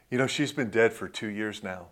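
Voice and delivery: understated quiet grief, retold; subdued retold confession. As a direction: let it drop quietly, gently. Retells widower's confession after laughter.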